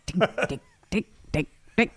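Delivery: put-on words sung out in a Dutch accent; light Dutch accent, playful. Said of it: "She's actually doing the Dutch accent now".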